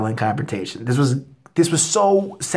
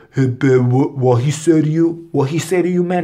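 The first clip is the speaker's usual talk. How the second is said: imitating the boyfriend; 2 semitones higher, 3 dB louder than usual. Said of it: "He comes over".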